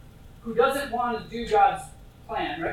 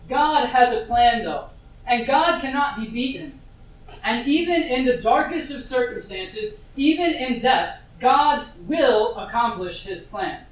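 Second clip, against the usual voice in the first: louder, insistent preaching; emphatic proclamation; 4 dB louder than usual. Real, not acted. Preacher to congregation, proclaiming loudly. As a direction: drive home that God wins.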